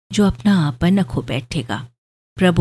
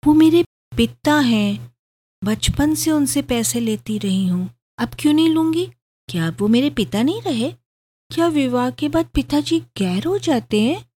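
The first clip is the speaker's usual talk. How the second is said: much higher, hurt disbelief; stunned protest, voice climbing high; astonished; 8 semitones higher than usual. A narrator's reading. Bride protests to husband about her father, high and astonished. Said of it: "Surabhi आश्चर्य से बोली".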